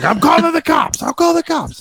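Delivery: high, loud mock yell of the threat; mock shout. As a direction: shriek it like the panicked worker. Guy yelling threat through window.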